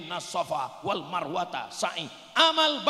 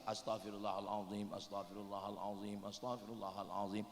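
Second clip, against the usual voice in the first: much softer, almost inward; barely voiced istighfar; 10 semitones lower, 12 dB quieter than usual. Shown as a demonstration. Congregant shows the preacher his silent istighfar. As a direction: murmur it to yourself in silence. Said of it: "istighfarnya dalam hati aja".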